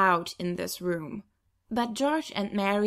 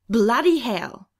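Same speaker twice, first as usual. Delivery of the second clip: loud, slow shocked swear; shocked curse; 2 semitones higher, 8 dB louder, slower than usual. Acted. Big sister hearing about a tattoo, loud shocked curse. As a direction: blurt it out in alarm.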